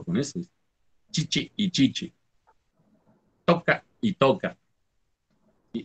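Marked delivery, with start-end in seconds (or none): 1.1-2.1 chichi with a long i, then chichi short; teacher shows the long vowel again; vowel length demo. Shown as a demonstration. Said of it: "vocales libres". 3.4-4.6 Toca y toca, the same word with different vowel lengths; teacher shows a near-homophone; two readings of toca. Shown as a demonstration. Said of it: "Al parecer son dos".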